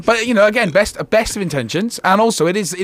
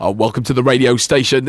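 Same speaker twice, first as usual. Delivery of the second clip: radio dj voice; 4 dB louder than usual. Shown as a demonstration. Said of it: "That's exactly the same voice".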